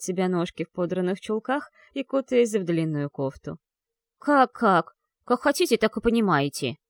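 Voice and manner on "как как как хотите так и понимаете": touch of an offended snarl; hurt growl. Acted. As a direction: snap back, hurt and sulky. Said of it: "прорычала обиженно мисс Осворт".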